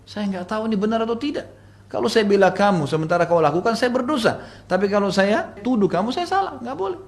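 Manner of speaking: high-pitched helpless arguing; agitated excuse. Retold or imitated. Mother telling her daughter she cannot take sides, agitated.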